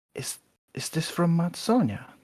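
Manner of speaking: hushed stage whisper. Voicing Tilly, asking about a joint in character: quiet half-whisper. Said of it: "and quietly with a whisper".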